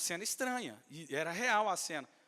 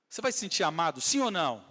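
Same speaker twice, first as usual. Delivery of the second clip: preaching loud; 8 dB louder than usual. Acted. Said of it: "preacher exhorting the congregation".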